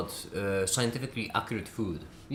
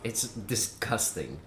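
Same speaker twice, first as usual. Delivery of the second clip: drawn-out disgust; slow disgusted; 2 semitones lower, 3 dB quieter, much slower than usual. Real, not acted. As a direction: spit out slowly in disgust. Ranting about sprouts.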